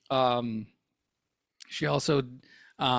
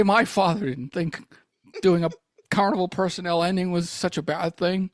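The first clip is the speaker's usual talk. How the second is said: Jimmy Stewart impression. Host as Jimmy Stewart bickering about the closing song. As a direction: ramble on in character. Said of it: "I can't get out of the voice".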